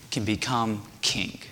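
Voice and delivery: hushed, slow whisper; unvoiced dramatic whisper. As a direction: let the secret out in a whisper.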